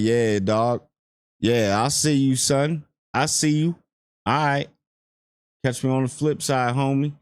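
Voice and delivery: lightly imitated chill orc soldiers; casual homeboy orcs. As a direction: toss it off like greeting a homie. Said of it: "Everything's just so casual".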